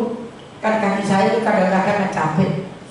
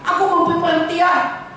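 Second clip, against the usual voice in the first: quoting the Lord; 5 semitones higher than usual. Retold or imitated. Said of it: "Tuhan berkata".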